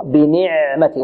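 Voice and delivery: بنعمتي slowly, ع flowing briefly, neither held nor cut; medium-flowing ayn. Shown as a demonstration. Teacher showing students the correct middle ayn, moderate flow. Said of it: "الصوت يجري جريان متوسطا".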